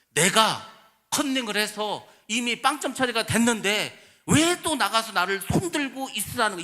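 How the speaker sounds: mock-outraged student arguing double punishment; protesting kid. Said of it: "걔가 한 말이 그런 거예요".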